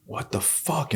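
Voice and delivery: high, hushed bewilderment; softly baffled, voice lifted high; retold disbelief. Locked-out man at his barricaded door, hushed disbelief.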